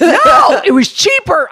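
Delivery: high, loud laughing protest. Real, not acted. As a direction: laugh while insisting loudly. Laughing insistence after outburst.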